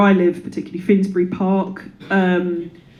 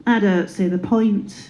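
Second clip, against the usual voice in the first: depression voice; 4 dB quieter, slower than usual. Acted. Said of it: "my depression goes".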